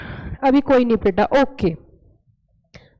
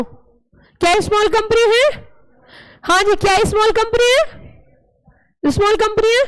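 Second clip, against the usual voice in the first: coaxing question; 5 semitones higher than usual. Acted. Coaxing children to answer.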